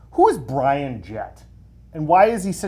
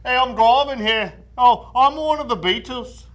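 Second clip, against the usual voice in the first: lightly done, higher Aussie taxi driver; Australian accent; 8 semitones higher, 6 dB louder than usual. Retold or imitated. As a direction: shout it like an Aussie cabbie. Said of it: "he can't do impression or accents".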